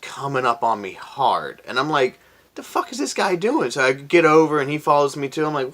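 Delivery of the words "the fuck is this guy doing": much higher, baffled outrage; high the fuck is this guy doing; alarmed disbelief. Retold or imitated. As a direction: react to a tailgater. SUV tailgating, retold.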